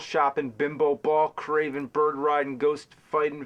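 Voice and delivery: brisk, even run of insults; scripted rant, run straight through; brisk insult list. Acted. Recording takes of a scripted insult rant.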